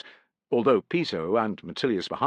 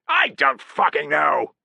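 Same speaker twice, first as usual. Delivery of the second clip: slow, louder, exasperated; rising frustration; 6 semitones higher, 5 dB louder, slower than usual. A narrator's reading. Piso frustrated at being asked the password. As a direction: snap in exasperation. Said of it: "with rising frustration".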